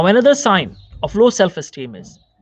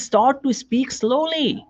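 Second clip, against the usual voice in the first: high, drawn-out urging; slow speech; 8 semitones higher than usual. Shown as a demonstration. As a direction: stretch it out as a plea to slow down. Urges slow talk, demonstrating it.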